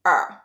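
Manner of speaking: a lone, low-pitched "er"; schwa sound. Shown as a demonstration. Teacher demonstrates a reduced vowel, as schwa "er". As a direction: say "er" as an isolated English schwa. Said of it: "pronounced like an English schwa".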